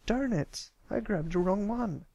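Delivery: high, frustrated filly; annoyed filly. Acted. Scootaloo cross about the wrong sheet, annoyed. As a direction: grumble at the mix-up.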